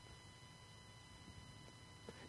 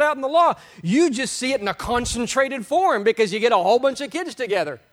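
high, loud, driving sermon voice; fiery preacher in full flow; preaching at full force; 7 semitones higher, 4 dB louder than usual. Acted. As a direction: hammer the point home to the congregation. Preaching builds.

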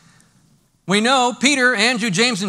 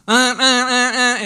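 alarm imitation; 5 semitones higher, 9 dB louder, much slower than usual. Alarm sounding again.

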